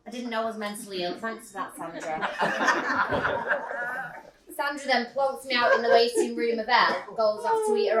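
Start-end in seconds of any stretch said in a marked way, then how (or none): 0.1-2.3 fast dry sarcasm; deadpan the thanks; sarcastic reply to nurse Sandra. Real, not acted. 2.3-4.5 long real laugh. Real, not acted. Laughs at own joke.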